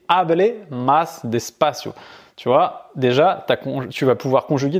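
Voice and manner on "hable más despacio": slow, clear Spanish; careful teacher demo; slow model phrase. Shown as a demonstration. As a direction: say it slowly, clearly. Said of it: "A R et".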